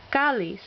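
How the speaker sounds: cáliz with CÁ stressed; stress on accented syllable. Shown as a demonstration. Teacher listing words with written accents, stress on accented syllable. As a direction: lean on the first syllable of cáliz. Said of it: "words that need written accents".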